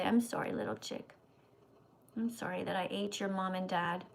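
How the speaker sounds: whispered apology. Pretend. Apologizing to a chick, hushed.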